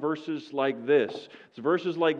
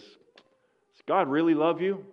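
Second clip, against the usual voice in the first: taunting accuser; 6 semitones higher, 6 dB louder, slower than usual. Retold or imitated. Satan taunting the old miner.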